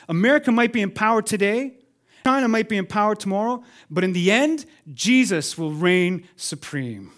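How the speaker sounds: rising preaching climax. Acted. Preacher to congregation on world powers, building to a loud climax. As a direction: drive the hope home to the crowd.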